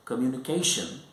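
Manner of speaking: "communication" with the stress on the "ca" syllable. Shown as a demonstration. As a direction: lean on "ca" in "communication". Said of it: "stress is on the third syllable".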